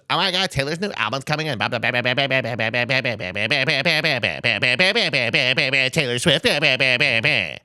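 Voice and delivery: sing-song mock gushing, high; mocking chatter. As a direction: roll the eyes through the blah blahs.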